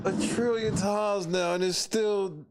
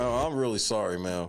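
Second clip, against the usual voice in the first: driver impression; 13 semitones lower than usual. Imitating the driver's reply.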